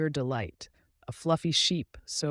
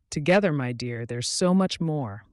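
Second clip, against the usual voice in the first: louder but loving and tender; loving mother duck; 2 semitones higher, 6 dB louder than usual. Acted. Mother duck answering her duckling, loving. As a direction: reassure the little one lovingly. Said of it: "the mother duck said lovingly".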